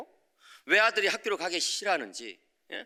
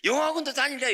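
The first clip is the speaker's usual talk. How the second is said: son's eager request; 9 semitones higher than usual. Retold or imitated. Son asking for English academy.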